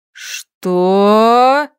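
a single shocked roar, held long. A narrator's reading. Orc ruler bellowing at his bride's bedtime demand, loud. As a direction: bellow the word in outrage. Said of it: "взревел Иглым".

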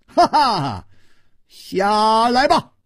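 a chuckling rebuke, pulling them off the saddle; playful laughing scold. A narrator's reading. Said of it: "他笑斥道".

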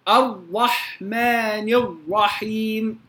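الرحمن الرحيم slow with a wrong ر; faulty ra. Shown as a demonstration. Teacher shows students another wrong ra. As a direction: say الرحمن with an overdone ر. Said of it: "خطأ أيضًا".

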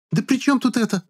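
put-on very high indignant girl's voice. A narrator's reading. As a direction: protest shrilly. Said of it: "возмутилась Шарлотта".

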